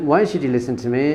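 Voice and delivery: asked through a laugh; laughing father asks again. Real, not acted. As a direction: still chuckling at the joke. Laughing at own joke.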